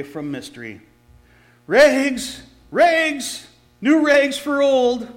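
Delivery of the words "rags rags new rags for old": loud, high ragman's cry; street call. Acted. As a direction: shout your wares to the rooftops. Ragman calling out again.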